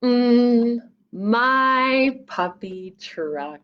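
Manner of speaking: very slow fond murmur; tender. Acted. Carter fondly greeting his found puppy truck. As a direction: draw it out lovingly.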